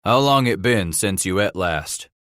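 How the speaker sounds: put-on Kentucky accent. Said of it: "with his Kentucky accent".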